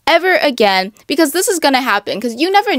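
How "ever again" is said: mock defeated. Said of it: "roll up in the corner and be like".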